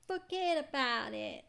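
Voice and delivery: mock New York mobster "Forget about it"; a touch of New York tough guy; New York accent. Streamer voicing mobster dismissing Phoenix, New York accent. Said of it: "I went from New York to".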